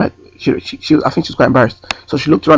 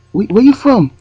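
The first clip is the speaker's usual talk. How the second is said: high, pushy repeat in a put-on European accent; 10 semitones higher, 4 dB louder, slower than usual. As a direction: demand it louder in a mock Eastern European accent. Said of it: "try and do an accent".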